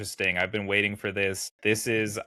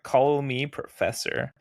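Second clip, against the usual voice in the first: slow, higher-pitched pompous imitation; mock self-important; 4 semitones higher, slower than usual. Podcaster mimicking a professor who insists on his title, mock self-important. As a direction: draw it out, mock power trip. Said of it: "like, a dick to her".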